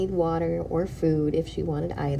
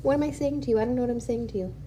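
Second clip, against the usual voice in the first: pet talk; 5 semitones higher, much faster than usual. Real, not acted. Talking to cat in high voice.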